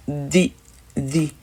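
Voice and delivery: "di" with the tongue between the teeth, ending in i; "the" said as "thee". Shown as a demonstration. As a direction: say "di" with a soft th and an i at the end. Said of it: "La prononciation sera".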